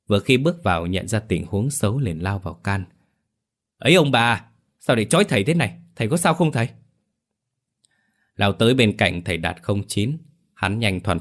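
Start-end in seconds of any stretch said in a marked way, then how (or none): 3.8-6.7 alarmed intervening. Acted. Son rushes in to intervene.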